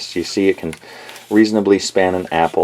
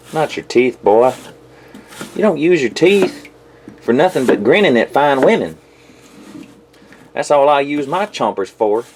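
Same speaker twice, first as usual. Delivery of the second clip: put-on country-boy twang, pitched up; redneck voice; 5 semitones higher than usual. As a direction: lecture the boy as a hammed-up redneck. Slips back into redneck voice to son.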